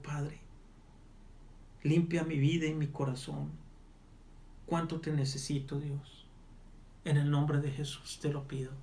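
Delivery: earnest spoken prayer, pleading and pausing; fervent prayer. Acted. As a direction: lead the listener through a prayer of repentance. Leads a sinner's prayer.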